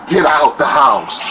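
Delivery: slow, drawn-out shout. Retold or imitated. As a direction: order him out of the house. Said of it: "And she's like".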